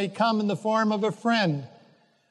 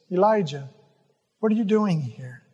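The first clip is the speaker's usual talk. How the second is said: gentle. Retold or imitated. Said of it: "speaks gently to him and just says".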